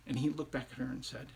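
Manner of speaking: very soft, low narration; quiet, spaced-out storyteller voice; hushed storytelling. A narrator's reading. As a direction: let the tale drop to a hush.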